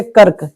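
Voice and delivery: "कर्क" with r lightly joined to k; one syllable "कर्क"; light half r. Shown as a demonstration. Teacher sums up for class, "कर्क" with light r. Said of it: "हल्का उच्चारण किया जाता है".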